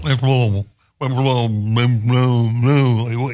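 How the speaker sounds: lightly mocking Kentucky accent on Louisville, said as Lou-vull; Kentucky hillbilly accent. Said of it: "we love our hillbilly accent".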